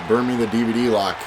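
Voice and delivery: usual speaking voice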